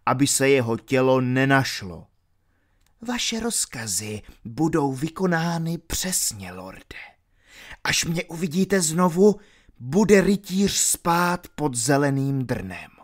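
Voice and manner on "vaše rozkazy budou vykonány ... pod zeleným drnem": obedient henchman, a bit higher; a hint of a servile thug promising; lightly voiced henchman. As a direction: servile henchman reporting to his lord.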